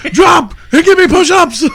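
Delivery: hammed-up drill order; mock drill sergeant. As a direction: bark the order playfully.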